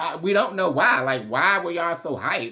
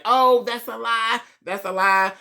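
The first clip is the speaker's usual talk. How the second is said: high, louder mock yell of protest; raised, pitched-up mock outcry; 8 semitones higher, 4 dB louder than usual. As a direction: imitate someone shouting down an accusation. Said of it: "They're yelling, screaming".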